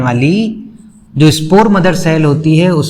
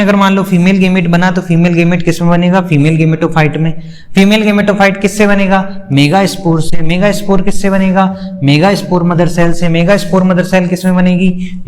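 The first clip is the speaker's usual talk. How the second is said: brisk run-through of the chain of terms; quick recap. Shown as a demonstration. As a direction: rattle through the recap, link by link. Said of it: "इसको बड़ी तेजी से करते हैं".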